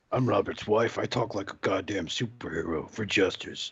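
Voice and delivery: hint of a heroic wife voice; imitating host's wife. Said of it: "She does talk like that".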